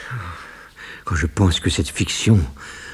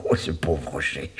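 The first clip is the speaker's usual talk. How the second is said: rire moqueur; 2 semitones lower, 7 dB quieter than usual. Real, not acted. Se moque de sa victime.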